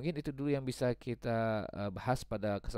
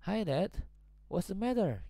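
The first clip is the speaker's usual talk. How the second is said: put-on concerned child; 9 semitones higher, 4 dB louder, slower than usual. Child asks tired father.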